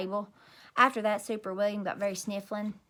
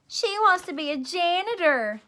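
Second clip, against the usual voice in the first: higher and louder, teasing chant; mocking kids yelling; 7 semitones higher, 4 dB louder than usual. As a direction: jeer it like mean classmates. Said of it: "they yelled".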